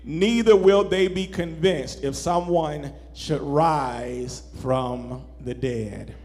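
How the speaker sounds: measured, lifted Bible reading voice; solemn sermon scripture reading. Acted. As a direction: read the passage with weight and reverence.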